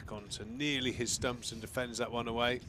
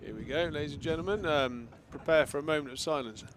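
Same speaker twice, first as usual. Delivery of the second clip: frantic mock sports commentary; 3 semitones higher, 4 dB louder than usual. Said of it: "let's see what it sounds like".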